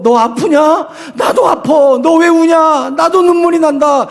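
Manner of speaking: Jesus voicing shared tears; sorrowful compassion. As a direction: cry out in shared pain. Jesus weeping with the believer.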